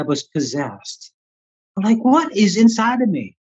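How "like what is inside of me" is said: high-pitched, incredulous retold question; alarmed disbelief. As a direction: relive the bewildered alarm. Retelling alarm at own body.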